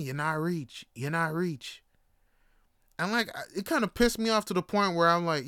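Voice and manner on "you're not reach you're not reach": lightly imitated Jamaican taunt; Jamaican accent. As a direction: toss it off with a Jamaican lilt. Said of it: "everybody we passed kept saying the same thing".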